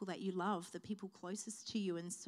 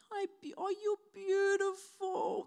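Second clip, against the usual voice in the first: imitating her dad; 10 semitones higher, 5 dB louder than usual. Daughter imitating her father's gentle greeting, tender. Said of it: "That's how my dad speaks".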